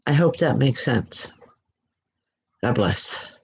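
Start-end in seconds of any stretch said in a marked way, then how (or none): 2.6-3.3 said through a yawn; low, soft, mid-yawn. Real, not acted. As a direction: let a yawn swallow the words. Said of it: "I'm sorry for the yawning".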